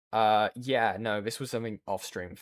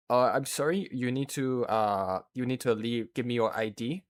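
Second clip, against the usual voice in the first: a faint hint of a French accent; light French accent. Delivery driver asking for ID, faint French accent. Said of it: "I don't know why I picked that voice".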